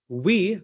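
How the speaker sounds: WE begun with rounded lips; careful w sound. Shown as a demonstration. Coach demonstrates being conscious of sounds, careful w. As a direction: say WE with a clear w, not v. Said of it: "very conscious even when I have to say".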